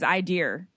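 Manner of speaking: "I dear" for idea, ending in an R; husband's Rhode Island accent. Retold or imitated. Wife imitating her husband's I dear, Rhode Island accent. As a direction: put an R on the end of idea, "I dear". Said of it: "it's just like he says".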